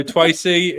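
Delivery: "Twacy" with the R softened to W; imitated speech impediment. Podcaster greeting the girl from school, "Twacy" with W for R. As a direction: mimic a child's W for R in "Twacy". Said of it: "she had a speech impediment".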